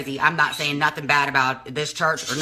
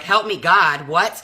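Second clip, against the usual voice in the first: retold dismayed disbelief; 3 semitones higher, 5 dB louder, slower than usual. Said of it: "So I'm sitting there like".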